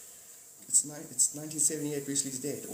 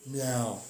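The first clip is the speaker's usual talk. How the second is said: cat meow. Retold or imitated. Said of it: "cat goes".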